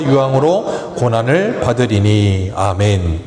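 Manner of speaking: slow, measured Bible reading voice; scripture reading. Acted. Pastor reading Revelation to the congregation, slow solemn reading. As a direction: read the verses slowly and solemnly. Reads scripture aloud slowly.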